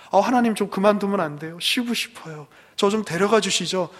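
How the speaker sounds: mock whining. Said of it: "징징거리죠".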